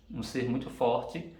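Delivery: ordinary delivery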